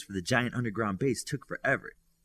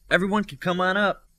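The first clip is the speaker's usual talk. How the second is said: loud, high call from the balcony; 9 semitones higher, 7 dB louder than usual. A narrator's reading. Midas calling down to everyone below. Calls down to the others.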